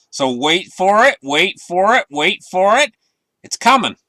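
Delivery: speeding up to reveal. Acted. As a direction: wait for it, climbing to the reveal. Teasing a coming crash.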